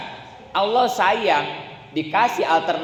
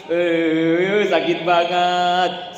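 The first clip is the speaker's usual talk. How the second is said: slow, louder, sing-song "sakit banget"; whiny complaint; 2 semitones higher, 5 dB louder, much slower than usual. Shown as a demonstration. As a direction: moan it like a whiner. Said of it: "tapi kalau gini".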